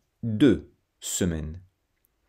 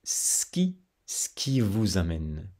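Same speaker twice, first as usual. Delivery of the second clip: Parisian clipped; 3 dB quieter than usual. Shown as a demonstration. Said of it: "Mais dans la partie nord, surtout à Paris".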